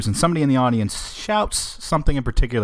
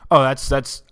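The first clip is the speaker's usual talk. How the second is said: mock protest broken by laughter; hammed-up chuckling mock scolding; laughing it off; 4 semitones higher, 3 dB louder than usual. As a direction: imitate fake disapproval, laughing through it. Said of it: "he's laughing about it the whole time".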